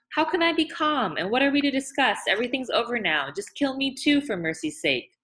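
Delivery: high, pleading woman's voice; distraught pleading. A narrator's reading.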